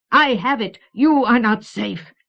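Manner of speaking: high, loud creature threat, slowing at the end; dark threat. A narrator's reading. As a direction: threaten your rival as a cunning creature. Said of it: "he muttered darkly".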